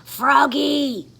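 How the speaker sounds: loud stern call. Acted. Teacher calling Froggy in class, loud call. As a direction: call him to attention. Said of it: "called his teacher".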